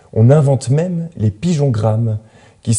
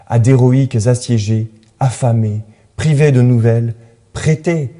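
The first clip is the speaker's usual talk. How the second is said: earnest poetry reading with dramatic pauses; poem recitation. Acted. Narrator reads a poem urging messenger pigeons to fly, poem recitation. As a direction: recite it as an urgent plea, setting the imperatives apart.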